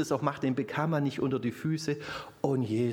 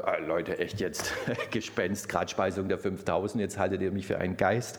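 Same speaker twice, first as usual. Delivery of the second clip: lower, weary grumble as Jesus, half-laughing; mock exasperation; 6 semitones lower than usual. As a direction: roll your eyes at the disciples, lightly. Jesus imagined grumbling at disciples.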